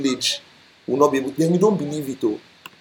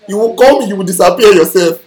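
mock threat; 7 dB louder than usual. Mocking scammer.

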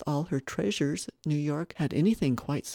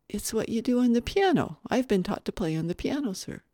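put-on higher childlike explanation; earnest little boy; 6 semitones higher than usual. Little boy telling of piano lessons, earnest. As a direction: explain as a well-taught small child.

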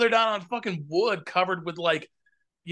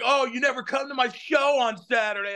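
higher, complaining mock voice; mocking whiny friends; 5 semitones higher than usual. Mimicking friends who complain he skips their shows, whiny. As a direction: parody friends who nag about missing shows. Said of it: "So they're like".

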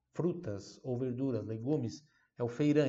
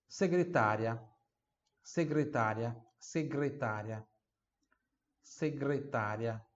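slow repeat; 3 semitones lower than usual. Shown as a demonstration.

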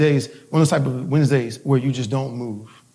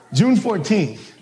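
slow, laughing date correction; 4 semitones higher, much slower than usual. Real, not acted.

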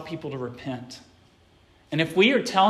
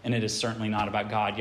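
soft, gentle call to repent, softer; loving rebuke; 6 semitones lower, 7 dB quieter, faster than usual. Retold or imitated. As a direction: lean in and plead gently with a brother. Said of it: "come along to them lovingly".

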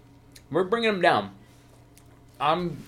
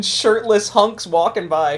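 slow, higher slow-mo voice; slow motion voice; 7 semitones higher, 6 dB louder, slower than usual. Pretend. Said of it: "it's like slow motion".

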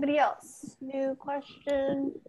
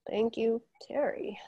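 whispered; 5 dB quieter than usual. Real, not acted. Quiet thanks to caller.

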